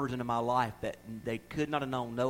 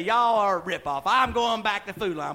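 fussing customer; 5 semitones higher, 6 dB louder than usual. Retold or imitated. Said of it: "we'll just say".

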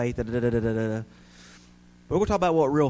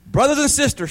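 high, ringing call to the flock; pitched-up pulpit shout; minister's shout; 8 semitones higher than usual. A narrator's reading. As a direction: call out to the whole crowd. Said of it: "shouted the minister".

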